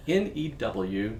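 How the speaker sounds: N E W spelled letter by letter, slowly; spelling it out. Shown as a demonstration. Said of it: "make that very clear".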